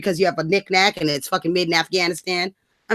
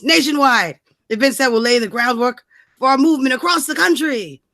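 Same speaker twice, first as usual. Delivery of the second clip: dramatic reading. Acted. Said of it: "let's do a dramatic reading".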